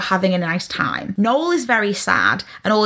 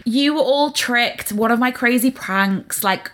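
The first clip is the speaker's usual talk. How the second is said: slow, self-congratulating gent; the Duke boasting to the crowd about his prank; smug gloat; 3 semitones higher, slower than usual. Retold or imitated. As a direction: savour the reveal like a clever trick. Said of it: "continuing the Duke's reveal".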